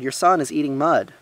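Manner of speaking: loud, high tattling announcement; children's scandalized outcry; crying out. A narrator's reading. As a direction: tell on him at full voice. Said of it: "they cried".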